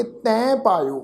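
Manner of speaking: ਤੈ nasalised as "tain" before ਪਾਇਓ; ਤੈ ਪਾਇਓ with ਤੈ through the nose; nasal tone. Shown as a demonstration. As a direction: add a nasal dot to the vowel of ਤੈ. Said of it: "ਨਾਸਕੀ tone".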